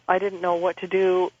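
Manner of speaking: usual speaking voice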